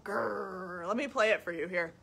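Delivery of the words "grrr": growl. Shown as a demonstration. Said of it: "like a growl".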